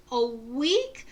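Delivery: high, loud pirate indignation; outraged pirate. Acted. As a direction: sputter like a cheated old sea dog. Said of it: "doing the pirate voice is really hard".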